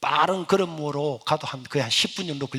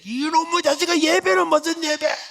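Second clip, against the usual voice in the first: mother snapping back; 13 semitones higher, 4 dB louder than usual. Retold or imitated. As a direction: bite back like an angry mother. Mother scolding son. (아들에게 쏘아붙이는 어머니)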